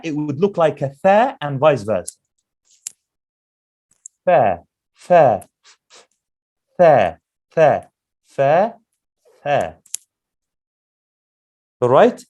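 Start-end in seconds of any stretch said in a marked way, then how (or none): 4.2-9.8 repeated fa with air through the lips; breathy fa drill. Shown as a demonstration. Teacher shows the fa to students. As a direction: blow air out on every fa. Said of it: "correct makhraj of a fa".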